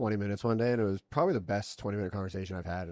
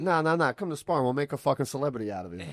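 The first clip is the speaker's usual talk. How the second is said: higher-pitched mock New York hustler; New York accent; 5 semitones higher than usual. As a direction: push the invite in an imitated New York accent. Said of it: "like, New York accent".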